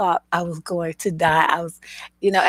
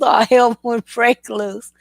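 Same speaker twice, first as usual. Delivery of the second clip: usual speaking voice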